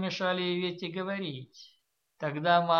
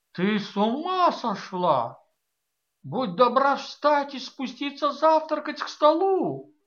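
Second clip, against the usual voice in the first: stern command; 7 semitones higher, 6 dB louder than usual. A narrator's reading. Mother orders daughter down.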